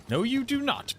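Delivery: high theatrical taunt; mock high taunt. Streamer taunting Belial in a high theatrical voice. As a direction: shoot way up in mock triumph.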